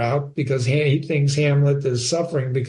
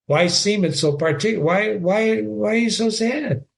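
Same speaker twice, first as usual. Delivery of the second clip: Gertrude pleading; 6 semitones higher than usual. Acted. Teacher voices Gertrude in scene.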